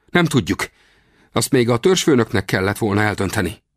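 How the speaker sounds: high-pitched warrior voice; Comanche warrior, answering. Acted.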